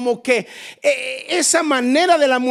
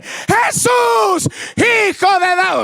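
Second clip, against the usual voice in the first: very high, loud shouted plea; desperate shout; 8 semitones higher, 3 dB louder, slower than usual. Acted. Bartimeo screaming for Jesus over the crowd, desperate. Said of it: "si estaba en un nivel de grito".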